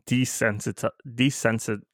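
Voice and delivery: desensiti- breaks off unfinished, then desensit- stumbles again; stumbling over the word. Real, not acted. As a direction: trip over "desensit-" and stop short twice. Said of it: "I can't even say the word".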